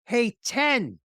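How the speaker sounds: loud, high call across the street; yelling a name. Retold or imitated. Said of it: "I, I yell".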